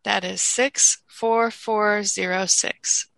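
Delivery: slow, careful repeat of digits; slow school dictation. Shown as a demonstration.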